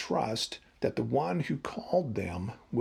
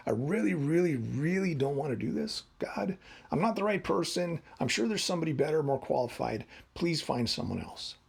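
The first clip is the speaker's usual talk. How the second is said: mild begging; 3 semitones higher than usual. Retold or imitated. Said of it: "Now he's just begging".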